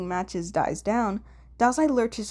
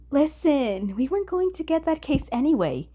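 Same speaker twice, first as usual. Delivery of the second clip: lightly raised, coaxing voice for Dazai; placating; 6 semitones higher than usual. Acted. Dazai backing away from lunging Kunikida, placating. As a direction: talk him down, a bit higher and sly.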